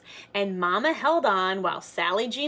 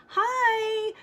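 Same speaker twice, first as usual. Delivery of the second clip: put-on high bright-kid greeting; little girl's hi; 14 semitones higher than usual. Girl to big kids on bikes, high eager hi. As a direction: call hi like an eager small child.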